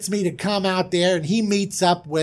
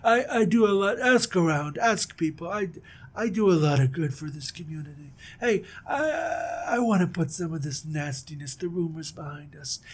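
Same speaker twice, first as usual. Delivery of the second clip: a hint of a smooth, self-important king; lightly voiced oily ruler, softer; smarmy king; 5 dB quieter than usual. King Hamor flatters Jacob, a hint of smarm. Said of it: "King Hamor speaking".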